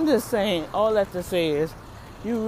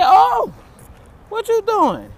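high startled cry at the cashier; shocked; 13 semitones higher, 5 dB louder, slower than usual. Retold or imitated. Shopper reacting to cashier touching her bag, startled high cry. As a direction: caught off guard, voice jumps up.

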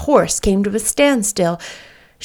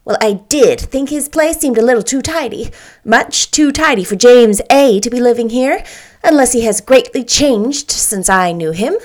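bright, chattery and a bit louder; chirpy little lady; 3 semitones higher, 3 dB louder than usual. Acted. Little lady chattering to Anne about James, chirpy. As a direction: chirp it out like a busy little bird. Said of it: "chirped the little lady".

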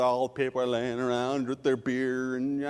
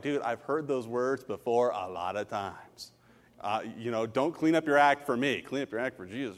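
easygoing reassurance; 5 semitones lower than usual. Retold or imitated. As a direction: calmly let him off the hook. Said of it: "I'm like".

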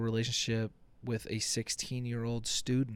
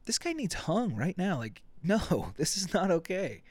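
outraged guy; 7 semitones higher than usual. Pretend. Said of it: "you're like".

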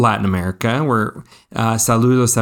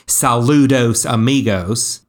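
put-on slow American-accented Saludos Amigos; Spanish words in a gringo accent; anglicized pronunciation. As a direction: say Saludos Amigos as an English speaker would. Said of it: "I feel like I should say".

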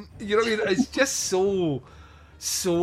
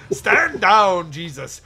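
Malcolm McDowell; 3 semitones higher, 6 dB louder, slower than usual. Retold or imitated. Mocking Dell ordering her to stand down, changing accent. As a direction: imitate an actor's wandering accent, stretching the final question. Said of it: "his accent just keeps changing".

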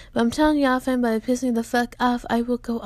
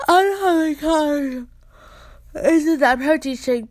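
exclaiming; 6 semitones higher, 5 dB louder than usual. Real, not acted. Exclaiming about protein shake.

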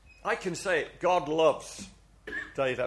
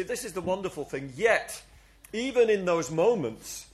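usual speaking voice

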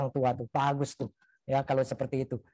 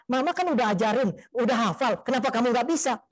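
imitating an exasperated mother, higher-pitched; mock telling-off of a child, raised pitch; scolding mother; 5 semitones higher than usual. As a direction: act out a nagging, reproachful parent. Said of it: "sambil dimarahin di jalan".

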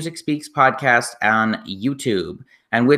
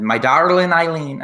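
lilting Irish accent, higher at the peak; attempted Irish accent; 4 semitones higher, 4 dB louder than usual. Shown as a demonstration. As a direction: have a go at an Irish brogue. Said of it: "gonna attempt an Irish accent".

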